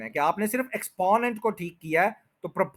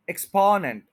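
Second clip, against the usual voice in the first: the middle beat of एक्सपोनेंट carries the weight; stress on spo; 2 semitones higher, 3 dB louder than usual. Shown as a demonstration. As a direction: land on स्पॉ in एक्सपोनेंट, light ends. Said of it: "जो स्पॉ है, उसके ऊपर पूरा stress करना".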